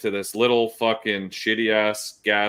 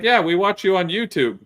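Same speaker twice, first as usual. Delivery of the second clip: imitating gas station guy; 10 semitones higher, 5 dB louder than usual. Clerk telling the trucker they watch him, high excited voice.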